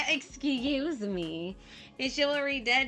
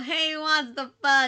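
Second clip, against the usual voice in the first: mock shouting, louder; 5 dB louder than usual. Acting out bad pickup advice to viewers: acting out a yell. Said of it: "just yell".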